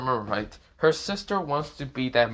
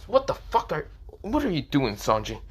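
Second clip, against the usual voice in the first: higher-pitched, irritated question; annoyed; 5 semitones higher than usual. Acted. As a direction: demand an explanation, mildly annoyed. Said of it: "said with such an annoying tone".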